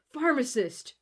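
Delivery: called out high into the empty shop; a hammed-up shout for the pharmacist. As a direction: bellow for the shopkeeper. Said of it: "you shout".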